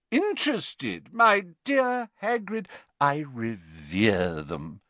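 a hint of theatrical sorrow; Slughorn voice. A narrator's reading. Slughorn to Hagrid on the sad night, hammed-up.

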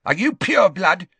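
put-on old man suddenly hostile to the official; suddenly aggressive. A narrator's reading. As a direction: fire the question at him. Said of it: "suddenly aggressive".

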